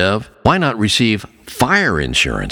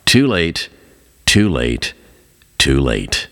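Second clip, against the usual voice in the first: fading despairing cry; 7 semitones lower, slower than usual. A narrator's reading. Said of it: "crying out".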